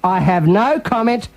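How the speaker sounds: slow, deliberate repeat; slow coached line. Shown as a demonstration. Host repeating the line for Benny, slow and deliberate. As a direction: say it slowly again for him to copy. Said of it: "Repeat again with me".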